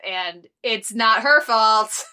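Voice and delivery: "not her fault" stretched out slow and loud; playful insistence. Real, not acted. Podcaster defending a character in a breakup, playfully insistent. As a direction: insist on it, drawing out the words.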